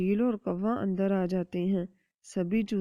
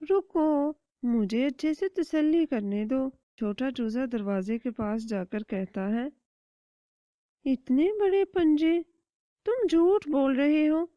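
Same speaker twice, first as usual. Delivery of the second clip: higher, curious little chick; 6 semitones higher than usual. Acted. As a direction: ask mom a clever question. Little chick exposes the claws. (ننھے چوزے کی اونچی سوالیہ آواز)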